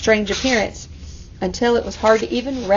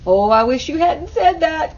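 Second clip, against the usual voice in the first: groaning; 5 semitones higher than usual. Acted. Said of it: "Camilla groaned".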